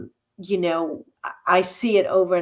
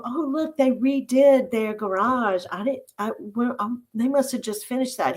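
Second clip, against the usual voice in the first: higher-pitched mock wide-eyed noticing; retold naive discovery; 5 semitones higher than usual. Wife retelling her remark to husband while driving, mock-surprised and higher. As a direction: play back an oblivious "oh, look" moment, pitched up.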